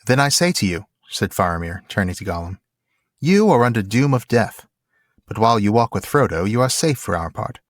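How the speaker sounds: measured dramatic reading, firm on the quotes; story narration. A narrator's reading. Co-host reading Faramir's judgment on Gollum, formal story narration. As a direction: read it as a solemn literary passage. Reads the novel aloud.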